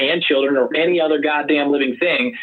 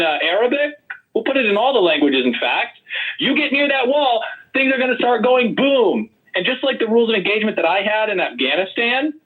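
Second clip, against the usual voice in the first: higher-pitched, heated rant at the panel; heated yelling; 5 semitones higher than usual. Real, not acted. Candidate ranting about border rules at the debate panel, heated near-yell. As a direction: push it up like you're half-yelling your threat. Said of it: "I don't know why you have to yell at us".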